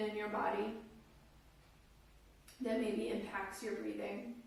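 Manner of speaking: calm, unhurried guiding voice with long pauses; guided meditation. Real, not acted. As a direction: guide listeners gently into their breath, phrase by phrase.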